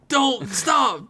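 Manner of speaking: very high, hammed-up urgent shout; mock urgent cry. Reader flipping the listener's plea into a joke, high mock cry. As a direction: cry it out high, in overdone ecstasy. Overacted joke reversal in the email.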